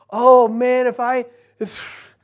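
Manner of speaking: put-on fed-up parent complaining about their child, exasperated; exasperated groan. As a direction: play the weary parent, dragging out if I, if. Parent voiced lamenting their child.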